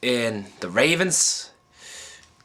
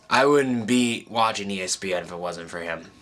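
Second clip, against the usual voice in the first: tearful laugh; 3 semitones lower than usual. Real, not acted. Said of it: "I'm trying not to cry on this".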